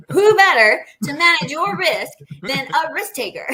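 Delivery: high, loud laughing comeback; playful retort. Retold or imitated. Answering her doubting parents, high and laughing.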